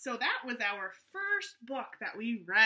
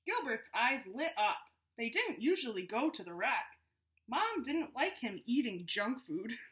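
story narration. A narrator's reading. Reads the story aloud.

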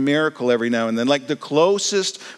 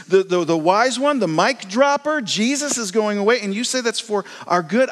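higher, excited listing of miracles; exasperated disciple; 5 semitones higher than usual. Pretend. Disciple reminding Jesus of miracles, higher and exasperated. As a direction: pile on the praise in disbelief.

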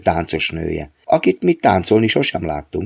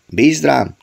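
higher-pitched, insistent assurance; stubbornly sure, voice lifted; 7 semitones higher than usual. A narrator's reading. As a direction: insist that it be left to you. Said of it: "erősködött megint".

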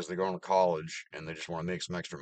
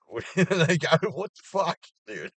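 much higher, louder disbelief; incredulous; 10 semitones higher, 6 dB louder than usual. Real, not acted. Ranting about lazy kids, high incredulous. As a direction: squeal out total disbelief. Venting at coworker.

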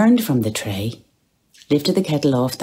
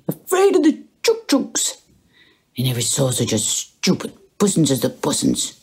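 mocking baby talk; 3 semitones higher than usual. Bloom mocking his cat's fear, cooing teasing. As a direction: keep teasing the cat. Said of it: "he said mockingly".

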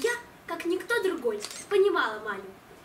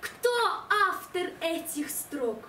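slow, solemn recital of a love poem; dramatic poetry declamation; 3 dB louder, slower than usual. Acted. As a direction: declaim it slowly with grand pathos. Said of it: "Поэма".

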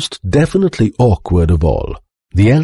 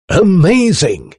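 high, drawn-out cry of amazement; shouted; 13 semitones higher, slower than usual. A narrator's reading. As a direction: exclaim it high and slowly, like an excited inventor. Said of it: "he shouted".

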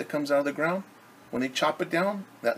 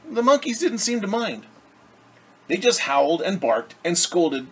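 picture-book read-aloud for a class; lightly lilting storyteller voice; story narration; 3 dB louder than usual. A narrator's reading. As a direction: read it gently like a storybook to children. Reads picture book to children.

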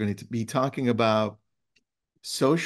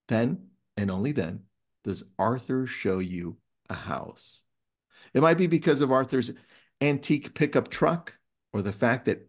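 story read-aloud. Acted. Host reading a favourite book passage to listeners, measured read-aloud. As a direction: read it like a tale worth savouring.

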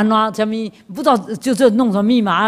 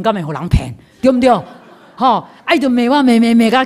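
laughing through the words; 4 semitones higher, 3 dB louder than usual. Real, not acted. Speaker laughs retelling how he was scammed, laughing. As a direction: laugh at your own gullibility. Laughs at his own foolishness.

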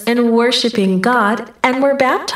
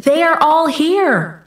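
higher-pitched narrated call, little added volume; understated calling-out in a higher pitch; mild shout; 6 semitones higher than usual. A narrator's reading. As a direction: give a restrained storybook shout. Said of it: "he shouted".

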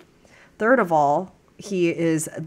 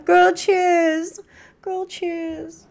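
excited toast; 10 semitones higher, much slower than usual. Real, not acted. Toasting her sister.

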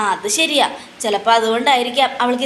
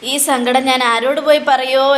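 lightly acted wailing lament; mild theatrical weepy complaint; mock crying. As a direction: moan to God in put-on grief. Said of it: "മൂങ്ങ ഇങ്ങനെ ഒന്ന് കരഞ്ഞോണ്ടിരിക്കുക".

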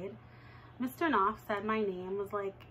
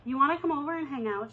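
eager invite; 4 semitones higher, faster than usual. Retold or imitated. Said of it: "she asked".

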